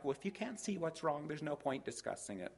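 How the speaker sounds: high, soft mock huff; huffy wife. Wife to husband who cannot guess, mock huffy. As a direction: imitate a wife who refuses to explain.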